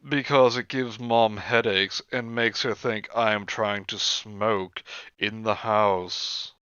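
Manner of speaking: deliberate, stretched-out reading aloud; journal read-out. Acted. Reading a girl's altar notes to friends, slow read-out. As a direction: read it slowly, lingering on phrase endings.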